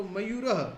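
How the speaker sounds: मयूरः with the visarga echoed; visarga demo. Shown as a demonstration. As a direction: breathe out an "aha" after मयूरः. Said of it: "मयूर के पीछे विसर्ग है तो".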